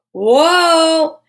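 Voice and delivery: loud surprised whoa; big high exclaim of surprise; sudden delighted gasp-like whoa. Real, not acted. Vitamin reveal, surprised cry.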